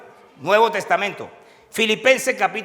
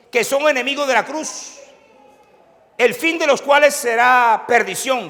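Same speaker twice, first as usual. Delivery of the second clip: preaching; 6 semitones higher, 6 dB louder than usual. Acted. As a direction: declaim each word to the congregation. Preacher reads scripture at full force.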